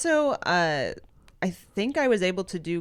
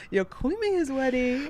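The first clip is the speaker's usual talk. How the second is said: high, sing-song princess voice; sweet squeaky princess greeting; 6 semitones higher than usual. Pretend. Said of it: "you're doing the princess voice".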